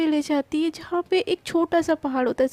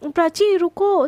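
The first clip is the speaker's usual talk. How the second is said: calling out; 2 semitones higher, 5 dB louder, slower than usual. Acted. Calling after Prachi.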